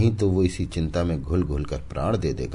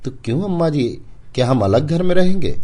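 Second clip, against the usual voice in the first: put-on high, loud childlike voice; a small boy asking his mother; child's question; 11 semitones higher, 9 dB louder than usual. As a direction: ask like a worried little boy.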